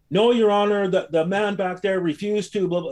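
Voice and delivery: high, whiny pleading; mocking prosecutor. Prosecutor making excuses to the judge, in a high mock whine. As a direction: mimic the prosecutor fumbling an excuse.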